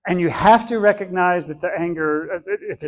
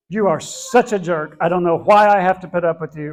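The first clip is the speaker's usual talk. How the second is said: louder, half-acted jab of blame; mock angry accusation; 6 dB louder than usual. Telling off Song Lee in a mild mock angry snap. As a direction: snap the insult like you're fed up, but keep it a demo. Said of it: "what my anger wants me to say".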